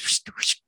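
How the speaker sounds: whispered whoosh sound effect; quick zipping-away whoosh; breathy whoosh noise. Retold or imitated. Imitating a teleport sound.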